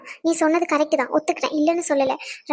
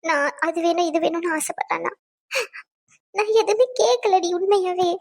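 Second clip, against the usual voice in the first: confiding through tears; tearful. Acted. Wife telling her friend about being found wanting, tearful. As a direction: protest your innocence while crying. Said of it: "ஏன் இப்படி அழுதுகிட்டே இருக்க?".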